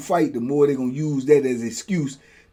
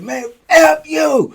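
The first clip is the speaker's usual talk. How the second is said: higher, slow, cracking curse; scared curse; 13 semitones higher, 7 dB louder, much slower than usual. Retold or imitated. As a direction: curse back while terrified. Cursing back, scared.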